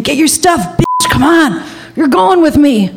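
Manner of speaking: retold agitated ordering, pitched high. Agitated Jack ordering Sue to come along, retold. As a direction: imitate a worked-up man ordering her out. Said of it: "he's getting more agitated".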